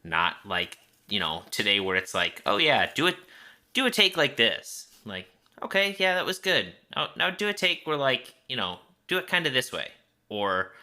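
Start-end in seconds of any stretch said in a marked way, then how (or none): 2.5-4.9 mock director. Mimicking a modern director. 5.6-9.9 mock director. Mimicking a modern director.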